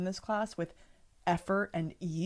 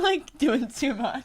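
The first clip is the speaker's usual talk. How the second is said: teasing exaggeration; 7 semitones higher, 8 dB louder, much slower than usual. Teasing a friend's movements.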